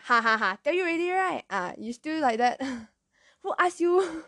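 gloating Malaysian parent, pitch jumping high; mock told-you-so taunt in a Malaysian accent. Malaysian parent to hurt child, mocking I-told-you-so. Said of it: "I just noticed my Malaysian accent come out".

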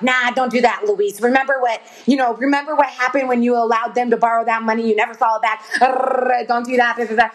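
lightly voiced scolding inner child; demeaning inner voice. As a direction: nag like a rude inner child. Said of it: "It will cuss at you, it will be demeaning".

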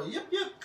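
short yips to move cattle; mild demonstration of herding yips; cattle-driving call. Shown as a demonstration. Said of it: "making noises to get them to go".

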